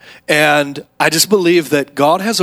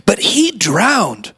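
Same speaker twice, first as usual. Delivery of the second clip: lightly voiced excited kid; 5 semitones higher than usual. Kid's triumphant punchline.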